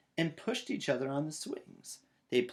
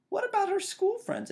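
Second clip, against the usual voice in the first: lightly voiced papa; 4 dB louder than usual. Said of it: "asked Papa".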